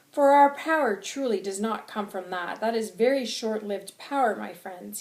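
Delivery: loud impassioned oratory; angry, passionate. Acted. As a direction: declare it forcefully to a crowd. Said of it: "I'm very angry and I'm very passionate".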